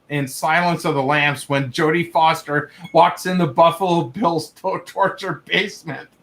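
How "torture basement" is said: normal talking voice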